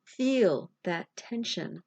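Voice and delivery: unhurried guided meditation with long pauses; reassuring meditation guide, phrase by phrase; guided visualization. Acted. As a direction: guide a grieving listener gently, leaving space between phrases.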